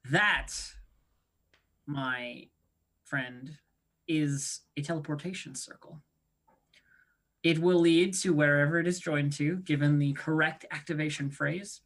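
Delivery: lightly voiced grand wizard, savouring each pause; a hint of a self-important magister; Alistair wizard impression. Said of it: "her best Alistair impression".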